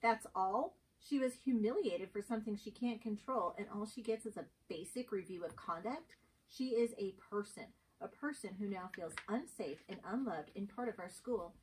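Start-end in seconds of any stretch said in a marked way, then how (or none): 0.0-10.5 louder, indignant protest; indignant confrontation. Acted. Teacher confronts the administrator over a humiliated student, indignant. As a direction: demand justice for the girl.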